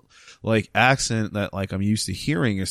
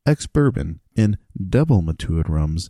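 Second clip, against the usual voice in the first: NPR read. Shown as a demonstration. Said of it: "just like I'm on N P R".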